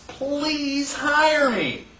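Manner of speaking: drawn-out, very slow plea; begging. Retold or imitated. Jobless worker pleading with an employer, slow begging. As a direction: beg for a job, stretched out. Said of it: "you had people begging for jobs".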